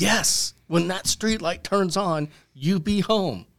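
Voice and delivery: firm emphatic tone.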